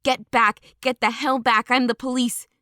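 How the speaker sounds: a cop losing control, shouting people back; cop screaming. Acted. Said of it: "was still screaming".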